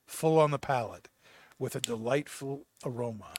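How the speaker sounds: measured catalog read-aloud; product description read. Acted. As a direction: read it like a tobacco ad. Reads tobacco product description.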